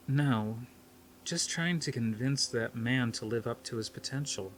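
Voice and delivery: softening her tone to make peace; a touch gentler, backing down; mild conciliatory ease. Acted. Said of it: "This time her tone was gentler, conciliatory".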